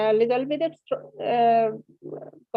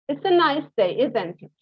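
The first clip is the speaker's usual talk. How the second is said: tag isn't it falling at the end; 3 semitones higher than usual. Shown as a demonstration. Teacher showing students a falling tag. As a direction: let "isn't it" drop in pitch like you expect agreement. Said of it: "falling intonation".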